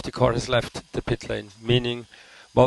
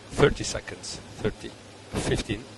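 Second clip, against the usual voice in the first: breathy whispered seconds; whispered countdown; 3 semitones lower, 6 dB quieter than usual. Real, not acted.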